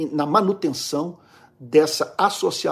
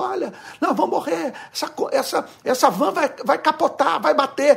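frantic, panicked yelling, very high voice; 12 semitones higher than usual. Telling a joke, voicing van passengers: imitating passengers shouting in panic. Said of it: "E todo mundo gritando".

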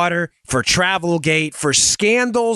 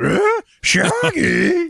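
put-on cartoon dog voice, higher; 12 semitones higher than usual. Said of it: "you sounded a little bit like Scooby-Doo when I went".

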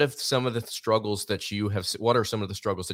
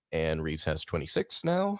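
mock unexcited, quiet, offhand, brushed-over announcer voice; 4 semitones lower than usual. Mimicking a broadcaster calling a free throw: imitating a quiet unexcited announcer. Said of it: "just quietly goes ... doesn't even sound excited".

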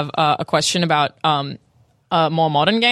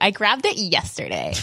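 snippy, sassy delivery; 4 dB quieter than usual. Mimicking how someone just said a line: mock-sassy tone. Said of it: "I feel like you said that in a really sassy way".

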